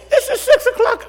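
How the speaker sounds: very high squeaky protest; outraged at the hour; exasperated disbelief. Retold or imitated. Grandfather woken by a 6 a.m. text, squeaking.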